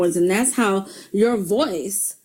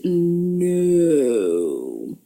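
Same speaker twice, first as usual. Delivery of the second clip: firm no; 3 semitones lower than usual. Shown as a demonstration. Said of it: "Let me repeat that in slow motion".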